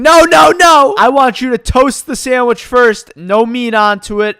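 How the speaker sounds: high, loud mock scream easing into slow orders; imitated scream. Customer scolding the sandwich maker, mock screaming. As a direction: yell it like a fussy customer losing patience. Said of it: "she starts screaming".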